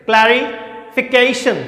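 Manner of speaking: क्लैरिफिकेशन slowly, pausing between clari and fication; word in parts. Shown as a demonstration. Teacher showing students a long word, slow and in parts. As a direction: split क्लैरिफिकेशन into two careful halves. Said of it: "देखिए दोस्तों".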